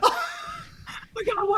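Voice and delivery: very high, tearful crying voice. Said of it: "and I'm crying".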